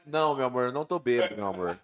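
put-on low, slurred drunk phone voice; drunk dialing. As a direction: talk like a tipsy husband on the phone. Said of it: "minha mulher falou, "Já tá bêbado".

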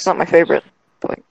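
choppy breaking-up call audio; scrambled voice. Real, not acted. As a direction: voice cutting in and out over a bad connection. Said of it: "You are breaking up so much".

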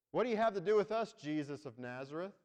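loud, fast shouted challenge; spirit screaming at Jesus. Acted. Demon in church screaming at Jesus, loud and fast. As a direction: fling the question at him in alarm.

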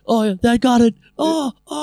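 high, hammed-up moans; hammed-up cartoon moan; mock moaning Randy. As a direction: ham up a cartoon dad moaning.

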